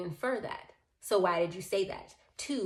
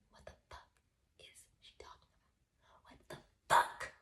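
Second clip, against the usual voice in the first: aghast, barely voiced whisper; stunned whisper; 9 dB quieter than usual. Storyteller privately baffled at what she says, whispering. Stunned aside about her rant.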